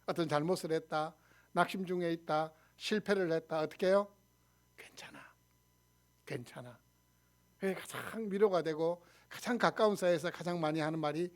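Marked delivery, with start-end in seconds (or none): 4.8-6.8 very soft, low comforting words; soft reassurance. Acted. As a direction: murmur it low to console someone. Comforting someone who made mistakes. (나직이 다독이는 말투)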